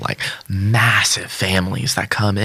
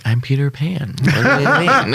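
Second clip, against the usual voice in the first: put-on high, laughing kid protest; childish Peter Pan; 8 semitones higher than usual. Child actor protesting to his mom, high and laughing. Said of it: "I'm like".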